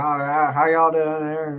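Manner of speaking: folksy hillbilly greeting; casual hillbilly hello; heavy hillbilly accent. Acted. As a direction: lay on a bit of hillbilly twang. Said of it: "just getting that heavy accent".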